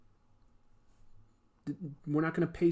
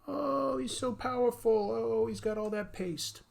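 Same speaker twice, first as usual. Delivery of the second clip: mock awe; 7 semitones higher than usual. Fan swooning over villain.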